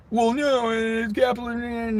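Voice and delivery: high, slow smug voice; a hint of a smug defender; mock apologist. Mocking the people who defend taxes, high and slow.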